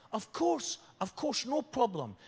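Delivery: high, sing-song reply; lightly voiced cheerful lady; cheery Welsh lady. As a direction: chirp it like a kindly hostess.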